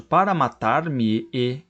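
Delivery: slow "para matar-me e", the final e set apart; vowels shown. Shown as a demonstration. Teacher showing two vowels, "para matar-me e" slowly. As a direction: spell out both e sounds ending "para matar-me e". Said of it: "aquele dois es ali viram um e só".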